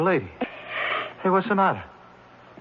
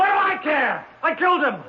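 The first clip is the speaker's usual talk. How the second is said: defiant shout; 6 semitones higher than usual. Acted. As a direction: yell it back, higher and defiant. Defendant shouts back at judge.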